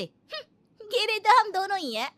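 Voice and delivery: high teasing words through laughter; taunting laugh. Acted. Daughter-in-law taunts her mother-in-law, laughing. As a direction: laugh the jab out.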